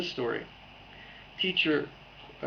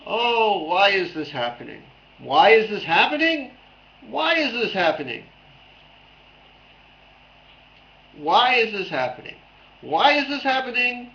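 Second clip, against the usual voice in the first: put-on higher, louder, exasperated Jewish accent lament; 6 semitones higher, 7 dB louder than usual. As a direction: wail it like a kvetching Jewish uncle. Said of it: "Jewish accents".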